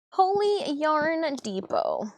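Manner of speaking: high, slow, drawn-out wonder; amazed exclamation. Real, not acted. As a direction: savor each word in awe. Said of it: "Holy, holy Yarn Depot".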